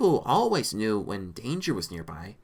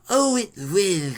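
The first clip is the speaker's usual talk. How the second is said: slow, raised villainous assurance; Bernard; 6 semitones higher, 5 dB louder, slower than usual. A narrator's reading. Lizard man promising Rita a twist, slow relish. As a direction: draw it out with mild relish.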